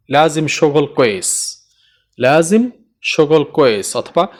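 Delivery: slow teaching. Shown as a demonstration. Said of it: "ঠিকভাবে কাজ করতে হবে".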